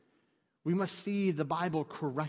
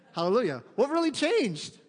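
much higher and louder, slowed; fired-up preaching; 6 semitones higher, 6 dB louder than usual. Real, not acted. Pastor challenging the church, loud high preaching cry. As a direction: belt it out like a revival.

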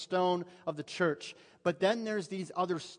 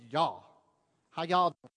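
punchy, louder Arkansas greeting; Arkansas accent; 4 dB louder than usual. Shown as a demonstration. Preacher showing how Arkansas cousins talk, Arkansas accent. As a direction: imitate Arkansas in-laws' y'all. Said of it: "that's how they say it".

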